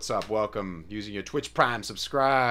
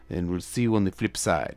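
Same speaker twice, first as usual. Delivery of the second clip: radio DJ voice; 5 semitones lower than usual. Acted. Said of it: "You sound like a radio D J right now".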